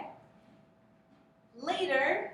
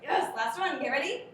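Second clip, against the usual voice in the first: excited praise; 6 semitones higher, 6 dB louder than usual. Real, not acted. Teacher cheering drill on.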